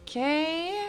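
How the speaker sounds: loud, high outburst at the game; exasperated, loud. Real, not acted. Streamer reacting to the game's evidence prompt, loud exasperation.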